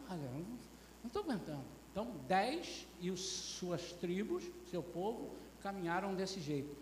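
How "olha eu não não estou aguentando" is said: soft, quick acted grumble; mock weary muttering; murmuring complaint. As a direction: mumble that you can't take it. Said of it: "E só murmurando".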